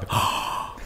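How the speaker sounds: big voiceless gasp of astonishment; acted open-mouthed gasp; mock shocked gasp. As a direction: suck in air as if dumbfounded. Raquel shown open-mouthed in shock.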